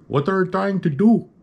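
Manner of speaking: high, laughing imitation of the doctor; mock doctor question. Doctor peering at the wound, high laughing mimicry. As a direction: laugh through the doctor's words. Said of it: "this Middle Eastern doctor asked me".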